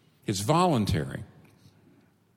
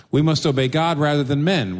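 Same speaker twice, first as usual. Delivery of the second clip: louder and higher, a defiant proclamation; bold declaration; 5 semitones higher, 5 dB louder than usual. Retold or imitated. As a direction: declare it boldly before the council. Apostles defy the council.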